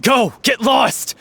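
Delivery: cold dismissal. Acted. Banishing the traitor.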